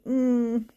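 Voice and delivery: contented hum, pitched a little high; self-hug hum. Acted. Reader showing a follower a self hug, comforted hum. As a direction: hum as if hugging yourself tight. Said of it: "give yourself a little self hug and go".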